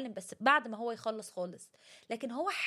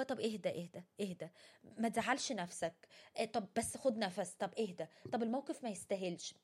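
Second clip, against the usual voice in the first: mock soothing; 4 dB quieter than usual. Someone repeating "calm down" to an upset friend, softly mocking. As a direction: imitate a person calming a friend by rote. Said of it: "اللي هو".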